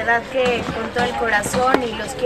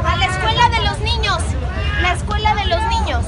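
raised, high calling voice; calling out to the crowd; 5 semitones higher, 4 dB quieter, faster than usual. Real, not acted. Handing out donations to a crowd, raised high call.

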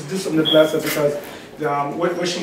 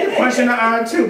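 laughing; 6 semitones higher than usual. Real, not acted. Joking during Bible talk.

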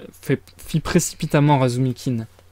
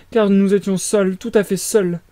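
plaintive; 6 semitones higher than usual. A narrator's reading. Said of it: "d'une voix plaintive".

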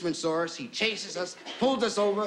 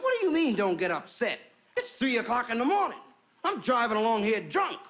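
higher-pitched comic outrage; indignant protest; 4 semitones higher than usual. Acted. Drunk Lulu protests to the policeman, indignant and higher. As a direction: play her affronted and arguing back. Lulu snaps back at officer.

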